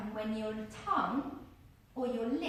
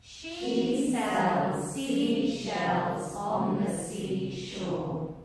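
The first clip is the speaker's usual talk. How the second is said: tongue twister stretched very slowly, louder; slow, loud, drawn out; 3 semitones lower, 8 dB louder, much slower than usual. Shown as a demonstration. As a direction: draw every sound out slowly to feel the tongue. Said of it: "Try it one more time".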